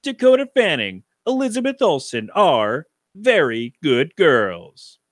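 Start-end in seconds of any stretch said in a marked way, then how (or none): 1.3-5.0 slow, drawn-out trailer announcer; movie trailer guy voice. Shown as a demonstration. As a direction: read the title like a film trailer. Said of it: "my best movie trailer, uh, guy voice".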